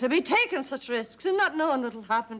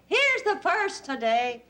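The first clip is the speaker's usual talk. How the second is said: mimicking drunk husband; 7 semitones higher, slower than usual. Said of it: "he'll always say".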